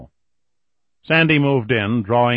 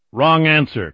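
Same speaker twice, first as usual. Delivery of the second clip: higher, louder snarl; 6 semitones higher, 5 dB louder than usual. Acted. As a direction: snarl it at him. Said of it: "Kelly snarled".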